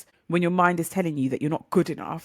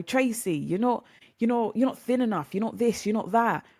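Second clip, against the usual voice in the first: mock critic; 5 semitones higher than usual. Voicing a critical person's put-down.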